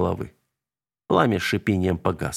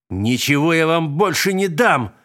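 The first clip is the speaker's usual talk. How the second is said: high, loud shriek breaking off; voice cracking into a squeal; 7 semitones higher, 4 dB louder than usual. A narrator's reading. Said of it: "Голос шефа неожиданно сорвался на визг". (срываясь на визг)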